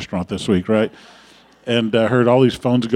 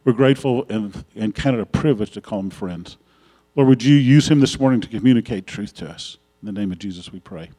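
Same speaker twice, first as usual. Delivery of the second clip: prayer; 4 dB louder than usual. Real, not acted. Pastor prays over the couple.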